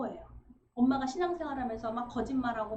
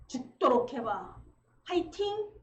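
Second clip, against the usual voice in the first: pushy parent cheer; 4 dB louder, slower than usual. Retold or imitated. Parent urging a tired child on, loud and cheering.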